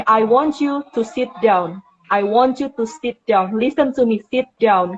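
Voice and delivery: slow, deliberate commands, each word weighted; firm instruction. Shown as a demonstration. Teacher telling a child with ADHD to sit, slow and firm. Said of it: "Dia bilang gini".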